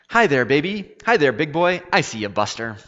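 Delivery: put-on high, loud, boozy old man hollering at a baby; old bum calling out. A narrator's reading. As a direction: call across the diner like a tipsy old bum. Drunk bum calls to baby.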